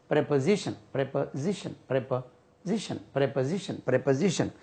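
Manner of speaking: quiet drilled प्रीपोजिशन with short pre; correct pronunciation. Shown as a demonstration. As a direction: repeat प्रीपोजिशन softly. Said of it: "ये प्रीपोजिशन नहीं होता है". (प्रीपोजिशन का धीमा अभ्यास)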